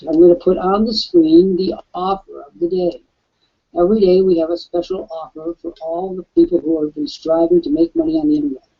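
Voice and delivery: hoarse, scratchy voice; talking through a rough throat; raspy voice. Real, not acted. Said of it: "I have a rather s-, raspy voice today".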